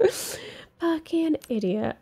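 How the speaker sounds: chuckling self-insult; laughing at himself. Real, not acted. Player mocking his own blunder, laughing. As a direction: laugh through it at your own mistake.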